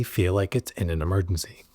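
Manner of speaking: hushed, breathless whisper; whispered question about the body's alarm. Acted. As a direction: drop to a secret whisper. Rhetorical question about panic.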